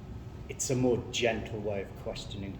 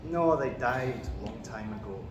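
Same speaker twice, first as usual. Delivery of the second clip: put-on Macbeth in a Scottish accent; broad Scottish accent; 3 semitones higher than usual. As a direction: speak as a Scottish warrior king, Scottish accent. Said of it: "Do you want a quick example?".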